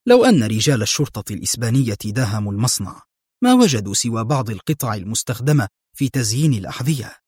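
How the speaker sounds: serious and a bit quick, getting down to business; serious, brisk. Acted. Adham turns serious with Mona, brisk and earnest. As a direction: lay out the plan earnestly, pace picking up. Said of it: "وقال بجدية".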